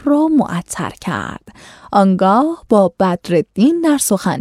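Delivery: measured, formal storytelling read; classical story reading. A narrator's reading. Host reading an old tale to listeners, formal narration.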